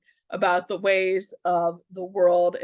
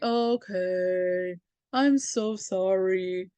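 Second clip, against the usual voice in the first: sheepish mock apology; 2 semitones lower, much slower than usual. Hero apologizing again, sheepish.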